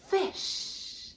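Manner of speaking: fish with the f drawn out unvoiced; sound it out. Shown as a demonstration. Teacher sounding out fish for kids, f stretched. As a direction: start fish on a long hissed f. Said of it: "let's use our sound".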